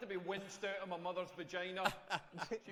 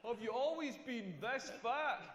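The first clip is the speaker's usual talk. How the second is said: slow, higher mock question with a laugh; lightly voiced rude stranger; mock gawker; 3 semitones higher, slower than usual. Comic parodying the tall question as a fat remark, slow with a laugh. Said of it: "be like".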